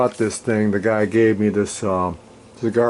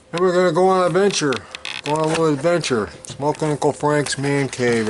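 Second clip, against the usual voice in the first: excited; 5 semitones higher than usual. Acted. Announcing the man cave tour.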